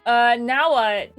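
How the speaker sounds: loud, drawn-out question across the group; calling out. A narrator's reading. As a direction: call for help, slow and loud. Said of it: "calls out to Chloe".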